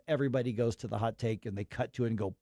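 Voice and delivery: usual speaking voice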